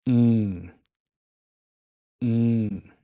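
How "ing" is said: "Ing" nasal, with the G never closed; unfinished ing. Shown as a demonstration. Teacher showing the nasal "Ing" for the start of importante. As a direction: say "Ing" and stop before the G. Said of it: "don't quite finish pronouncing the G".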